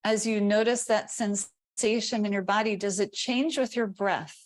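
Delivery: calm body-scan guidance with long silences; guided meditation. Real, not acted. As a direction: pose gentle questions, leaving room after each. Guides attention to body sensation.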